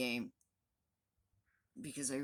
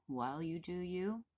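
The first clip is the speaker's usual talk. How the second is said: usual speaking voice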